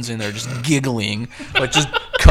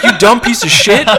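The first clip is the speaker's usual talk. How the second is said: a laughing, hammed-up yell, louder and higher; mock angry insult; 10 semitones higher, 10 dB louder than usual. Roommate scolding drunk friend over burnt pizza, laughing mock yell. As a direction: bark the insult while cracking up. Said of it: "And he's like".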